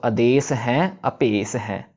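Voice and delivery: "आदेश हैं" slowly, हैं said apart with ह; slow correct form. Shown as a demonstration. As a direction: separate "हैं" clearly and slowly. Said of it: "उसको भी आवाज़ उसकी देनी है।". ("आदेश हैं" धीरे से, ह के साथ)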